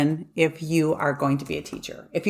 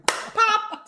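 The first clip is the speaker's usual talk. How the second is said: mock pop; 13 semitones higher than usual. Imitating popping a bag.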